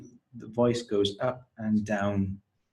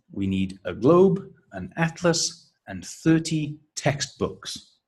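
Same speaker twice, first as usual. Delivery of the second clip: globe and atlas rise, textbooks falls; list intonation; 5 semitones higher than usual. Shown as a demonstration. Teacher modelling the list pattern, rises then final fall on textbooks. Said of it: "that is the intonation pattern for a list".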